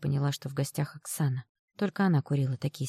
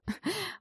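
a brassy woman's cackle; cackling laugh; 7 dB quieter than usual. Acted. Friend mocking the idea, high cackling laugh. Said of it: "Оксана опять захохотала".

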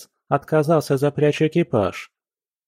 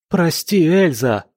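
higher, louder cry of apology; forced to cry his apology louder; louder plea; 6 semitones higher, 4 dB louder, slower than usual. A narrator's reading. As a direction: shout it out on command. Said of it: "Громче!".

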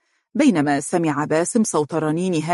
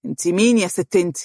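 put-on befuddled drunk question; muddled, trying to work out who it is; mildly tipsy confusion; distracted, drunk. A narrator's reading. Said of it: "وهو يقول بتشتت".

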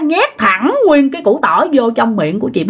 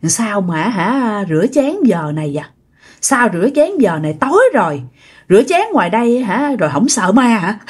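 fanged ghost woman. Retold or imitated. Ghost woman questioning someone washing dishes at night, lightly eerie. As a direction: taunt with a hint of a creepy old ghost. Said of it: "cười với chị mà lòi ra hai cái răng nanh".

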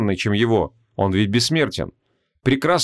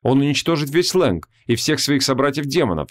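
ordinary delivery, nothing marked

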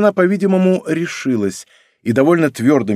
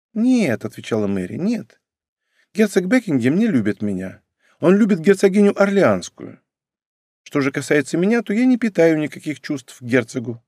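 put-on a somewhat higher girlish voice, earnest denial; a hint of a wistful court girl; lightly voiced young lady; 5 semitones higher than usual. Mary denies love for duke.

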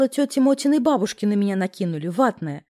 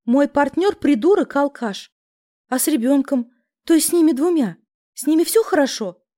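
higher, louder anxious moan; 5 semitones higher, 4 dB louder than usual. A narrator's reading. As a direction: moan it out in despair. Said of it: "простонала я".

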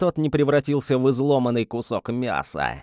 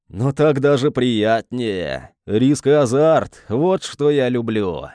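excited villain; 4 dB louder, slower than usual. Acted. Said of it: "его голос звенел от возбуждения".

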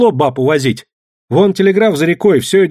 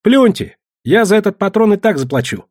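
mocking; 9 semitones higher, 3 dB louder than usual. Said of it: "добавила насмешливо".

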